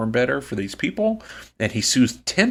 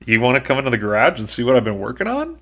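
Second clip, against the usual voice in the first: excited; faster than usual. Retold or imitated. Sazed jumps at being asked to show his work, excited. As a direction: imitate someone thrilled to be asked. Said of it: "He is so excited".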